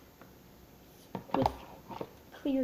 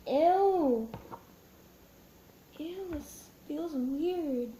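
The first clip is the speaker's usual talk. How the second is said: disgusted; 3 semitones higher, much slower than usual. Real, not acted. Touching slimy slime.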